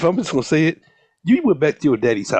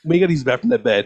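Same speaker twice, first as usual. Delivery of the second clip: dogs refusing. Retold or imitated. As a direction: voice the lazy dogs.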